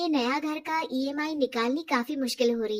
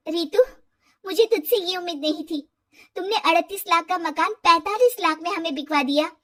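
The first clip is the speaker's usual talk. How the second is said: louder, reproachful confrontation; hurt anger; 3 semitones higher, 4 dB louder than usual. Acted. Riya accusing friend Ritu of cheating her, hurt and loud. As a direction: let the betrayal sting as you accuse her.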